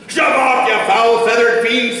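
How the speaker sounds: yelling at seabird. Acted. Sailor yells at seabird.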